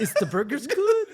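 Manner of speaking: quoting himself through a laugh. Retold or imitated. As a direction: laugh while repeating the line. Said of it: "Um, I said that".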